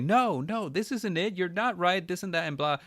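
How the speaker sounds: high, sing-song scolding; mock condescending clerk. Clerk correcting a non-Spanish speaker, mock condescending. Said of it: "look down on you".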